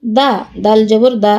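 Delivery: quick, unheld দা; no stretch on দা; short vowel. Shown as a demonstration. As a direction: say each দা short. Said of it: "কোথায় দ্রুত পড়ি".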